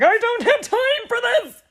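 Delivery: high, loud exasperated yell; frazzled cry of frustration; frustrated outburst. Retold or imitated. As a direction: blurt it out, fed up and late. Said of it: "and I'm just like".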